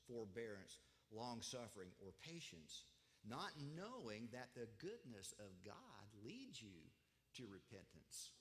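slow, deliberate verse reading; measured scripture reading. Acted. Preacher reading Romans two to the church, measured.

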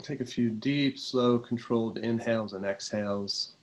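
calm, unhurried meditation voice, often settling low; guided meditation. Real, not acted. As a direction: guide them gently into relaxation, pausing between phrases.

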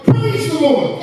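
high, drawn-out praise cry; imitated shout. Old woman praising God everywhere she goes, imitated shout. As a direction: proclaim it high, imitating a fervent believer. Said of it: "She'd always shout".

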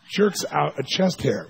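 usual speaking voice

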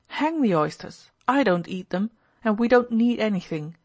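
mildly irritated refusal; a touch of exasperation, held short of anger; almost angry. Acted. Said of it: "cried Pyotr Ilyitch, almost angrily".

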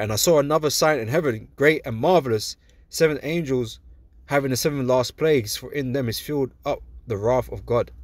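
measured, solemn reading of holy text; steady scripture recital voice. Acted. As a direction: read it out like verses in church. Reads scripture aloud.

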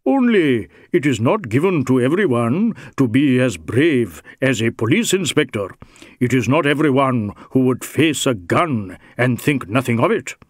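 lightly voiced Indian rogue, slyly admiring; a hint of mock deference; insinuating Sikh suspect. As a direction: praise his bravery with veiled menace.

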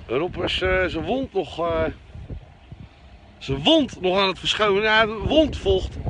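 cigarette in mouth. Real, not acted. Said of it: "Even, even roken".

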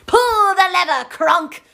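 strangled villain yell; Yzma voice. Retold or imitated. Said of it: "I'm Yzma".

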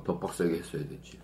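talking with food at lips; words through a bite; speaking while biting food. Real, not acted. Seen 0: Man lifts rice cake to lips, bites while speaking.

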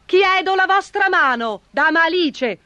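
very high-pitched urgent proposal; knight's excited exclamation; exclaiming. A narrator's reading. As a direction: blurt out the proposal in a high cry. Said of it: "esclamò il cavaliere".

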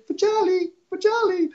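high-pitched mimicked protest; mad customer imitation. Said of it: "And he got so mad".

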